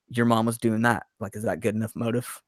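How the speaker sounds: imitating a killer turning serious, understated. Killer gives the heroine his motive, quietly serious. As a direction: drop the joking and state it evenly. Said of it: "it gets serious for a moment".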